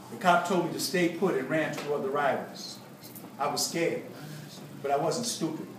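measured, deliberate storytelling read; narrated account with weighted pauses; memoir narration. A narrator's reading. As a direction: read your own story aloud to an audience. Reads a memoir aloud.

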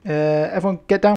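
urgent shout. Real, not acted. Urgent squad order in firefight.

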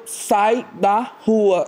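devagar, arrastando as palavras; ordem arrastada. Retold or imitated. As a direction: fala lenta e ameaçadora. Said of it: "Aí ele falou". (ordem bem arrastada)

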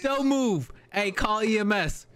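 high-pitched shouted commands; frantic officer taking control; urgent shouting. Pretend. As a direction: yell orders in alarm, pitch way up. Officer shouts orders in emergency.

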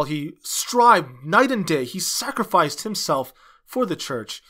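ordinary talk

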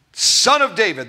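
loud, high imitated call; crying out. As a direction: call out to be heard, voice lifted. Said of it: "he was crying out".

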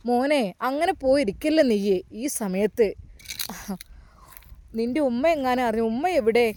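put-on a kindly elder asking a grieving boy what's wrong; concerned old man. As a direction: caretaker finding the boy at his father's grave, lightly voiced. Caretaker coaxes boy home.

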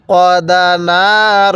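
slow, drawn-out tajweed chanting; teacher reciting slowly for students to copy; Quran recitation. Shown as a demonstration. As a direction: recite each syllable long and even. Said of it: "এখানে কিন্তু আমি ওয়াকফ করছি".

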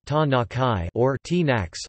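"Ta-na-kai or T-nax" read slowly as two spoken variants; pronunciation variants. Shown as a demonstration.

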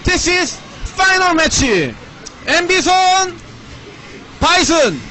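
hyped, drawn-out tournament announcer call. Acted. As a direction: announce the final like a ring announcer.

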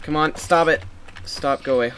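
loud, high frustrated yell; raging gamer. Real, not acted. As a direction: shout at the mobs to quit. Mobs chasing player.

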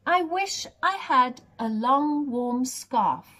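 a lightly voiced sad giraffe; mild whine of a cold giraffe. Giraffe wishing for a scarf, lightly voiced and sad. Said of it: "said the giraffe".

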